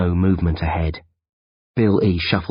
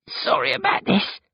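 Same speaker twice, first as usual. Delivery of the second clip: ashamed mumble. Acted. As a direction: mumble it, face hidden. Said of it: "he mumbles".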